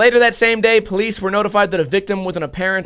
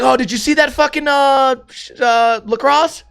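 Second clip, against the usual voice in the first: friend's excited, higher-pitched voice; imitated car buff; 6 semitones higher than usual. Tow-truck friend spotting a car, eagerly asking. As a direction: mimic an eager buddy groping for a car name.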